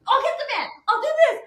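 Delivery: high, laughing eager voice; laughing quote. Retold or imitated. Wife imitating husband offering the van, laughing.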